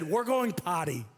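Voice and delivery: put-on slowed, babyish "going potty" in dad mode. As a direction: say it like you're talking to a small kid. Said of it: "I was in dad mode".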